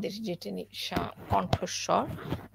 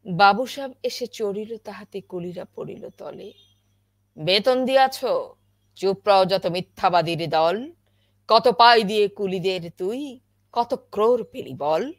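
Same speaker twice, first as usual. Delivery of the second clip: loud, furious recitation; anger; 14 dB louder than usual. Shown as a demonstration. Teacher demonstrates the angry verses of the poem, furious. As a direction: hurl the lines out in rage. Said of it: "এখানে আমার ক্রোধ".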